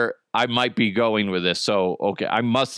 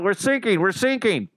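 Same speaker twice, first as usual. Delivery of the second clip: retold distress call; 7 semitones higher than usual. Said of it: "He's all".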